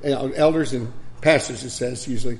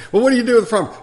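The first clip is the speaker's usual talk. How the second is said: much higher, louder mock question; angry old man; 9 semitones higher, 8 dB louder, much faster than usual. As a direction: mimic the old man's accusing question. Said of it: "That's frying pan".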